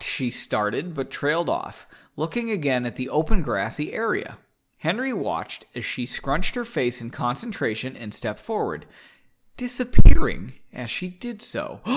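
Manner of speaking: measured audiobook-style reading; story narration. A narrator's reading. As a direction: read the story aloud, with pauses between phrases. Reads story aloud.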